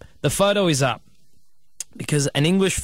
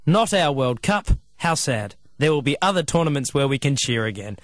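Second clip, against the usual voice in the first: put-on English accent. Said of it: "that was a good accent you did".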